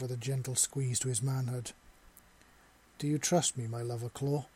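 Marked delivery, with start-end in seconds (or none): 3.0-4.5 purring softly. Acted. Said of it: "he purred softly".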